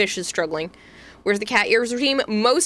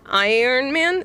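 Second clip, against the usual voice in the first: Boston Iron Man; 3 semitones higher, slower than usual. Shown as a demonstration. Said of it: "instead of iron".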